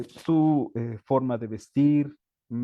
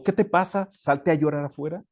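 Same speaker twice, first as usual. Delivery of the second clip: higher, sharp scolding; harsh teacher; 4 semitones higher, 4 dB louder than usual. Acted. Teacher scolding a crying pupil to get out, harsh mock scolding. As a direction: snap at the crying child to leave. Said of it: "una parte negativa del docente".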